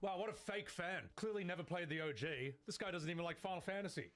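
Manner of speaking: lightly put-on indignant fan; role-played hater. Role-playing critics who call them a fake fan, mock scorn. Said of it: "Sorry, I'm just role-playing".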